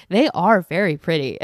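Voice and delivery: a hint of mom's measured, even way of talking; imitating mom. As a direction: lightly mimic mom's calm verdict. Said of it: "that's how my mom talks".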